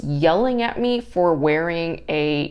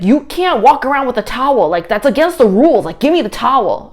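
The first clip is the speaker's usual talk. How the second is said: much higher and louder, scolding yell; staff yelling; 7 semitones higher, 9 dB louder than usual. Retold or imitated. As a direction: yell the rule at a guest. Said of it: "yells at me".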